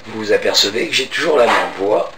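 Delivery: real lost voice, hoarse and rough; cavernous hoarse voice. Real, not acted. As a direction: talk through a real case of laryngitis. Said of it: "de cette voix caverneuse".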